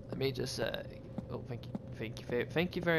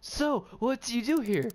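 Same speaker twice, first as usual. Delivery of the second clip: high voice; 9 semitones higher than usual. Pretend. Voicing game dialogue.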